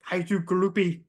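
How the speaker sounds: "Kaiju groupie" in a light imitated British accent. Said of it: "and he's British".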